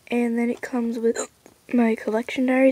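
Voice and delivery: talking through hiccups; hiccuping between words. Real, not acted. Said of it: "I have the hiccups".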